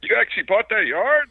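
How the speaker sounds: high, disbelieving woman's voice; neighbor woman. Retold or imitated. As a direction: pitch way up in mock disbelief. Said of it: "she's going".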